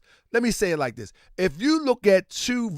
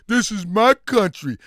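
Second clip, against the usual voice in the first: mock proud patriot. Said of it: "You sound like old slave".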